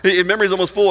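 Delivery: playful imitation of a device warning; mock phone alert. Shown as a demonstration. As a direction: announce it like your phone nagging you. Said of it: "You know what I'm talking about?".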